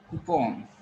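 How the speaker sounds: coupon with an O in the last syllable, koo-PON; teacher modelling coupon with a clear O; correct pronunciation. Shown as a demonstration. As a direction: say coupon as "koo-pawn", open O. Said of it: "There is O sound here".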